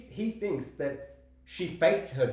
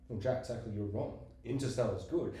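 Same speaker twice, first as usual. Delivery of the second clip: smug self; 5 semitones lower, 5 dB quieter than usual. Retold or imitated. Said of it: "I'd be like".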